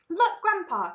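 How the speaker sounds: high, loud call; excited cry. A narrator's reading. Charlie cries out to his grandpa in the boat, excited. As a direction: call out to point something out. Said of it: "cried Charlie".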